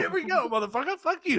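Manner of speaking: high, laughing mock cursing; laughing put-on outrage at a salesman; laughing mock curse. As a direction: spit it out through laughter, squeaky high.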